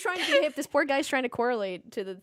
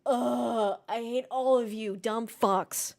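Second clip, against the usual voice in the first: mock rant; 7 dB louder, slower than usual.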